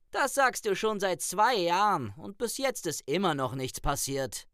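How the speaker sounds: Light's voice. A narrator's reading. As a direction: brush it off with a shrug. Light voiced, shrugging reply. (leicht höhere Stimme eines jungen Wichtels)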